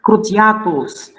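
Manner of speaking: "Cruciatus" slowly, with the accent on A; stress on A. Shown as a demonstration. Teacher giving an atus example, slow stress on A. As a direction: lean on the A before "tus" in "Cruciatus". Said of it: "then the accent is there".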